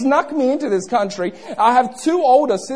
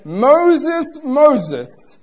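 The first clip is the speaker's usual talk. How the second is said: calling out; 5 semitones higher, 4 dB louder than usual. A narrator's reading. God calling Moses from the bush, calling out. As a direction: voice lifted high, drawn-out call. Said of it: "God called unto him".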